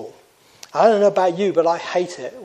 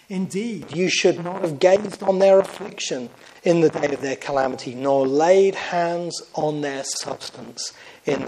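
measured, solemn Bible reading; lightly solemn scripture read; 2 semitones higher than usual. Acted. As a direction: read it out like a pulpit lesson. Reads scripture aloud.

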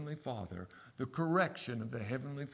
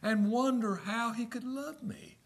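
quoting a hymn; 8 semitones higher than usual. Real, not acted. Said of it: "I love that hymn".

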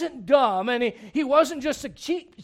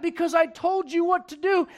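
mom snapping; 5 semitones higher than usual. Acted. Mom snaps at kid.

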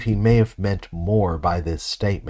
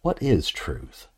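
low-key dismissive question, slow and falling; cynical; 3 semitones lower, 4 dB quieter, slower than usual. Shown as a demonstration. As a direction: toss it off slowly, as if truth hardly matters. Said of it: "in a cynical kind of way".

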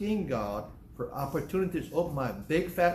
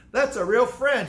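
louder and higher, hammering the point; emphatic repeat; 7 semitones higher, 8 dB louder, slower than usual. Real, not acted. Preacher repeating to the congregation, loud and emphatic. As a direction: drive home that's a real friend.

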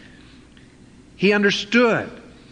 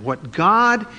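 very slow solemn divine voice; slow, weighty voice of God rebuking Peter; voice from heaven; much slower than usual. Retold or imitated. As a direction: pronounce it slowly like God's command. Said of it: "the voice spoke unto him".

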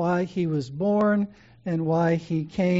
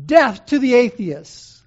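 slow, much louder, higher cry turned back on the crowd; defiant proclamation; 5 semitones higher, 10 dB louder, slower than usual. Retold or imitated. Polycarp turning the slogan on the pagan crowd, loud and defiant. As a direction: fling the slogan back at the stands. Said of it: "he looked around and he said".

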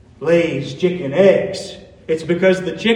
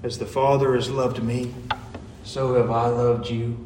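tender reading; 6 semitones lower, 5 dB quieter than usual. Shown as a demonstration. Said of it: "If you hear Jesus say to you".

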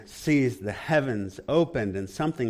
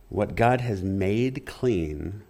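slow, low, weighty pronouncement; solemn voice of God; 4 semitones lower, slower than usual. Retold or imitated. God's voice answering Peter, slow and solemn. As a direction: speak it as a divine rebuke.

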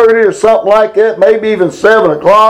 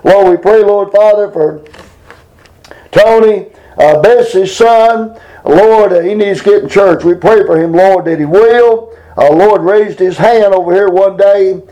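fervent spoken prayer to God; earnest pleading prayer. Real, not acted. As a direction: pray aloud with earnest pleading. Leads a congregational prayer.

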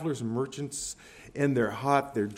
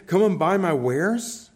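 slow, loud market cry, higher; merchant's call; 4 semitones higher, 7 dB louder, slower than usual. Acted. Holy God taking up a merchant's voice, calling out slowly. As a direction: hawk your wares like a merchant. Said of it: "taking up the voice of a merchant".

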